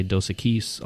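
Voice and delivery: "Equis" said uh-KEECE, stress on the end; mispronunciation. Retold or imitated. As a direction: quote people saying "Equis" as uh-KEECE. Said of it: "I hear people say".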